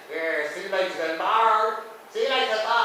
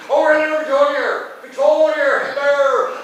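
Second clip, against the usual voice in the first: loud, higher greeting across the room; calling out; 9 semitones higher, 10 dB louder than usual. Real, not acted. Greeting the waiter across the restaurant, calling out loud. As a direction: hail him from afar, bright and high.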